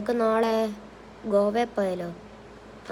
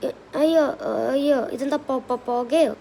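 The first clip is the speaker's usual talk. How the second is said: startled cry; 3 semitones higher than usual. Acted. Touches the strange ball.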